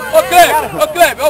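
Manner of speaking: loud repeated call to a player. Real, not acted. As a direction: call out for attention across the pitch. Calling Kleber across the pitch.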